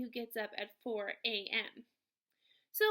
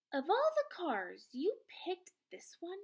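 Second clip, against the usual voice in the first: a cranky old grandma, lightly played; Grams complaining; 6 semitones higher, 3 dB louder than usual. A narrator's reading. Confused Grams complains to Mom.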